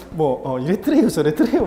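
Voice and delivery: loud mock Gangwon dialect, endings stretched. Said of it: "그런 사투리 쓰는 사람도 있어요".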